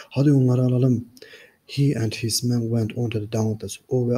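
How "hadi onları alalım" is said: a touch louder, rallying his men; mock shout. Narrington rallying his men, a mild raised call. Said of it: "Narrington bağırarak".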